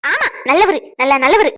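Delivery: loud mocking praise; bitter sarcasm. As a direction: sneer the word good. Daughter bitterly sarcastic about husband.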